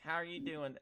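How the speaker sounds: friendly Southern greeting; Southern good old boy charm. Shown as a demonstration. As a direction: greet them in a put-on Southern accent. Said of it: "sound like a good old boy".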